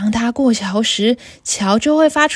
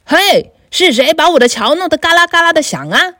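loud troll bellow; troll shouting at the big goat; troll's loud roar; 5 semitones higher, 5 dB louder than usual. Acted. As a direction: roar the challenge. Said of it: "大声地吼道".

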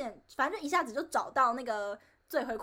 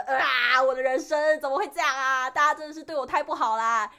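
mock wail; 6 dB louder than usual. Retelling her despair after the show.

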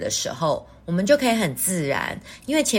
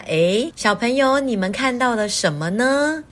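put-on reading to a toddler; 2 semitones higher than usual. Shown as a demonstration. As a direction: coax the little ones to look. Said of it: "就先让小朋友观察看看".

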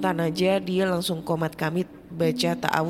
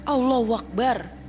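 louder, higher cry on waking; startled shout; 6 semitones higher, 3 dB louder than usual. Retold or imitated. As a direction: blurt it out, jolted from a nightmare. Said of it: "suamiku teriak kenceng sambil duduk". (seruan kaget yang lebih keras)

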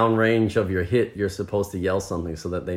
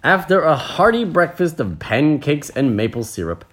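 story narration; slower than usual. A narrator's reading. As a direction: tell it with measured, lively phrasing. Reads the story aloud.

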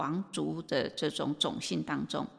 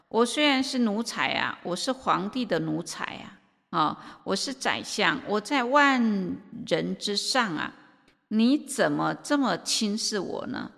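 a preacher acting out an angry minister, with a few loud bursts; angry retort; 3 semitones higher, 4 dB louder than usual. Insulted minister fires back at the national teacher, angry. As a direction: bristle as you protest that he is above all others. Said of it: "那生气他就火了".

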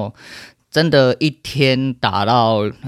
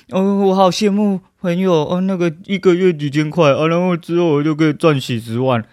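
higher, sing-song mock of a greedy dreamer; mocking whiny investor; 5 semitones higher than usual. Streamer mocking viewers who dream of easy money, sneering sing-song. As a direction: parrot their wishful talk with scorn.

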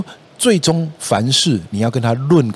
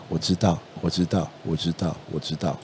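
softly repeated, fading lower each time; gentle murmur; 4 semitones lower, 9 dB quieter than usual. Shown as a demonstration. Parent whispering comfort into a crying child's ear, soft and soothing. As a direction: soothe a crying toddler close to his ear. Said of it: "轻轻地跟他说".

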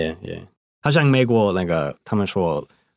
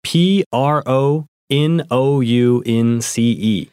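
slow spelling; 2 semitones higher, slower than usual. Shown as a demonstration. Co-host spells the verb for students. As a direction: spell P R O N O U N C E slowly, letter by letter. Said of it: "丹肯帮我们拼一下".

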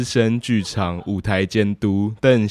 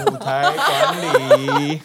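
mock-solemn; 6 semitones higher, much slower than usual. Mock-solemn naming of the book.

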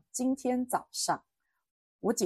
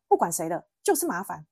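louder, mildly angry retold retort; 模仿姐姐发火; 6 dB louder than usual. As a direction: act out an irritated sister cutting off the argument. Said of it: "就我姐在发火". (模仿姐姐有点生气地顶回来)

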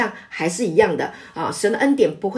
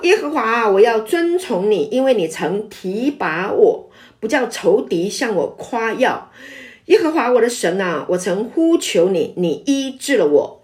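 scripture reading. Real, not acted. Reading a psalm aloud.

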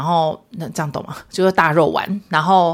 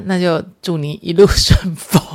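mock farewell; 6 dB louder than usual. Real, not acted. Mock send-off to husband.

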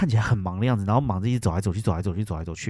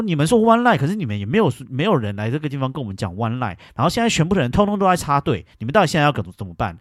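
irritated, higher scolding at the counter; retold angry complaint; 4 semitones higher than usual. Complaining to the counter staff about the queue, irritated and raised. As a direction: tell them off, fed up. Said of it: "我就说".

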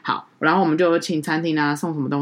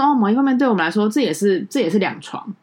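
high, quick, breezy excuse; imitating hotel clerk; 4 semitones higher than usual. Tour leader mimics the hotel clerk's glib excuse, high and quick. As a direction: mimic the clerk brushing it off lightly. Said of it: "他就补了一句".

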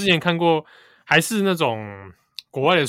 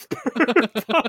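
Beijing erhua, raised pitch; beijing accent; 9 semitones higher than usual. Retold or imitated. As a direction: repeat it with a Beijing twang. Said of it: "这老套，这个词汇我很久没听到了".

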